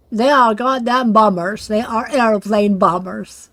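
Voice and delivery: slight American accent; a hint of an American drawl; a touch of American accent, emphatic. Real, not acted. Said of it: "why am I talking shit American accent".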